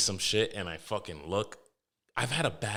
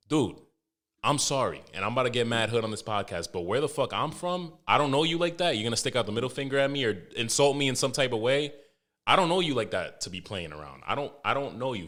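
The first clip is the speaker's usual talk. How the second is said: rising into a loud, heated rant; retold angry confrontation; 3 semitones higher, 4 dB louder than usual. Telling off the guy who flipped him off, angrily. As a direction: get heated and loud as you tell him off.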